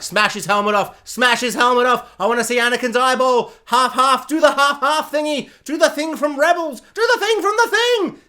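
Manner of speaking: egging the fight on; eager fan. Retold or imitated. Watching the duel, eager fan urging it on. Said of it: "I'm just like".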